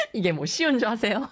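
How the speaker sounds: a cheeky challenge in a borrowed voice; put-on character voice. DJ daring the engineer in a put-on voice.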